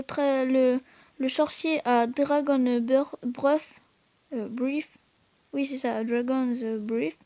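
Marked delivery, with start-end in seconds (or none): 2.1-5.0 hesitant French-accented English; mauvais accent anglais. Real, not acted. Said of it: "Excusez-moi pour mon accent anglais". 6.0-7.2 French-accented English, unsure; mauvais accent anglais. Real, not acted. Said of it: "Excusez-moi pour mon accent anglais".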